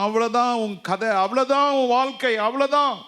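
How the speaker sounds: high, loud mocking devil voice; lightly voiced devil sneering; devil's taunt. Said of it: "பிசாசு சொல்லிட்டே இருக்கிறான்".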